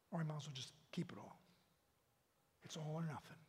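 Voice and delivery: earnest prayer, surging then hushed; fervent prayer. Real, not acted. Preacher leading the congregation in closing prayer, fervent. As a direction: pour your heart out to God.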